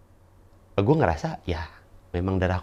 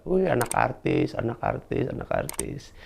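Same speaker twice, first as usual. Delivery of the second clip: mock taunt, trailing off softer; teasing; 4 semitones higher, 7 dB quieter than usual. People teasing him as a celebrity's child, mock taunting. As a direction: imitate kids' teasing chant, lightly. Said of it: "sering dibecandain sama orang-orang".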